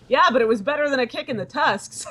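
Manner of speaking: gruff orc quote. Acted. Quoting orc companion.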